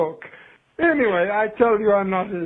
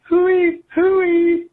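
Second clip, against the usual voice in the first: high, loud mocking "hooey, hooey"; mock a pundit's silly catchphrase; mocking imitation; 11 semitones higher, 5 dB louder than usual. Caller mocking Mister Curry's catchphrase in a higher, louder voice. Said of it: "that Mister Curry keeps saying".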